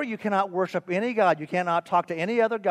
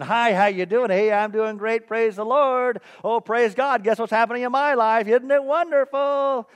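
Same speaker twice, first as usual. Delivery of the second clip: mock-cheerful church greeting, louder at points; all smiles; 3 semitones higher, 4 dB louder than usual. Churchgoers trading praise after the service, all smiles. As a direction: gush politely with a big smile. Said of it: "it's all smiles".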